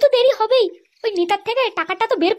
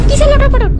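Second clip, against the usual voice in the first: indignant shout; 3 semitones higher, 9 dB louder than usual. Acted. Wife angrily denies accusation.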